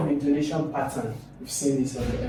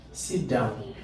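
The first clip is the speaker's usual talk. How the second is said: SIT DOWN falling low; falling command; 3 semitones lower, 4 dB quieter than usual. Shown as a demonstration. Teacher giving an example command, falling intonation. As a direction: drop the pitch on DOWN. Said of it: "Commands will also carry the what?".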